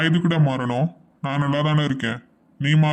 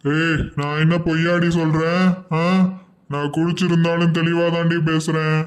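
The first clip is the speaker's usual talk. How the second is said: put-on drunk scolding; 3 semitones higher than usual. Drunk husband berating his wife, angry. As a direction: insist you're sober, heated.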